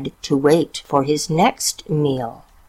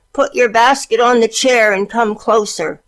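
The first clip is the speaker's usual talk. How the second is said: sweet wolf voice; 6 semitones higher, 3 dB louder than usual. A narrator's reading. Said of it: "as sweetly as he could".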